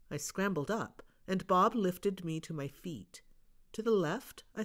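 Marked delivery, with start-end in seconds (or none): none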